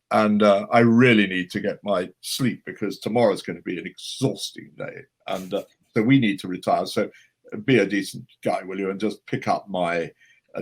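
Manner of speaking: lightly voiced confidential impression, fully voiced; a hint of a grand actor, emphatic; Christopher Lee. Actor leaning over to dodge the bill, mock confidential. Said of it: "he leant over to me and he whispered".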